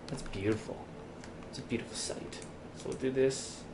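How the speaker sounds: hushed, awed whisper. Real, not acted. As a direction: breathe it out in wonder.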